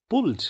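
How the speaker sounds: "पुल्ड" high, in one syllable ending d. Shown as a demonstration. Teacher models the third rule, -ed pronounced "d". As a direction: say "पुल्ड" as "puld", no extra vowel. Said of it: "ED को ड बोला जाएगा".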